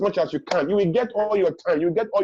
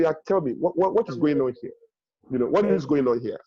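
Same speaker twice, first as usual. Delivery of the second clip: calm; 4 semitones lower than usual. Shown as a demonstration. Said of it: "you calm down".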